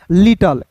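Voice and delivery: लिटल said "lit-ul", ending on the L; silent final E. Shown as a demonstration. Teacher answering the reading question, लिटल with silent final E. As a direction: say लिटल with no vowel after L. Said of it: "ई जो है दोस्तों हमेशा जो है silent होता है".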